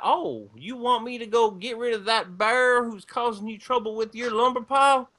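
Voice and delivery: put-on easygoing Southern-accent elf offering help; Southern backwoods accent. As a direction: play a cheerful redneck elf with a light Southern accent. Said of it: "he's gonna be the one who talks like this".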